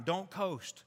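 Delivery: rally the staff, pushing harder each time; exhorting challenge. Retold or imitated. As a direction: pastor challenging the staff, building in force. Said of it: "Our pastor challenges the staff".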